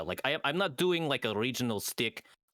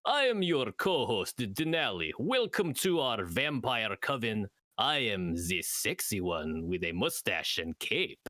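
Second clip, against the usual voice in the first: vampire host voice; 3 semitones lower, slower than usual. Acted. Podcast intro in vampire persona.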